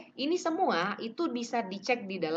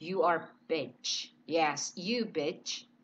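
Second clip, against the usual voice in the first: mock angry film line; 5 semitones lower, 4 dB quieter, much slower than usual. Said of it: "pemerannya kesel gitu ya".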